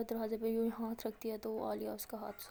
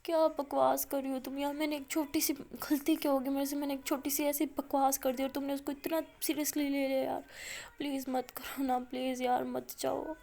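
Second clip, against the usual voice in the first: sobbing plea; 3 semitones higher than usual. Acted. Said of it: "اور زیادہ زور زور سے رونے لگ جاتی ہے".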